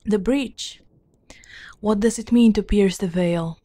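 measured, deliberate storybook reading; formal fantasy narration; lore narration. A narrator's reading. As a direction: read out old lore in even phrases. Reads game lore aloud.

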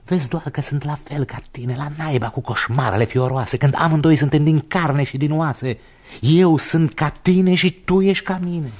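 a booming boast of being his double; loud defiant retort. Acted. Defiant retort to calling on God.

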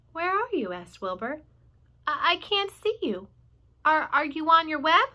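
high worried Wilbur; worried pig. Acted. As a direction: call out searching for her.

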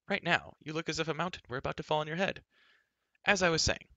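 put-on high, chattering girl brushing objections aside; Elenwy, breezily impatient. A narrator's reading. Girl dismissing Taryn's worried look, breezy impatience. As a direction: talk right over the objection, lively and pert.

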